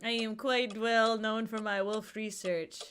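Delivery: slow, lightly French doctor; understated French accent on the doctor; put-on French accent. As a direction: read it as a mild French doctor. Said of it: "I just made him French".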